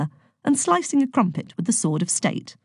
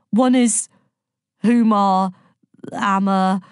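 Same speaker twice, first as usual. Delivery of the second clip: put-on a boy's half-hearted posh English accent, a bit louder; mock posh; 3 semitones higher, 4 dB louder, slower than usual. A narrator's reading. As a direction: try to sound posh English and fumble it. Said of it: "abandoning any attempt at talking posh".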